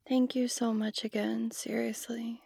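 soft whisper. Acted. Quiet thanks in the hug.

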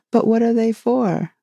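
put-on a curious child's eager question; great curiosity. A narrator's reading. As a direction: ask it bursting with curiosity. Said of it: "in a tone of great curiosity".

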